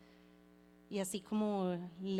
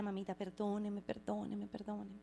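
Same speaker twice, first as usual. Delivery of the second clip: grandmother begging forgiveness, softer each time; fading apology; 6 dB quieter than usual. Retold or imitated. Grandmother begs her granddaughter for forgiveness, fading pleas. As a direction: let each perdóneme fade out. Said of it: "me pedía mucho perdón".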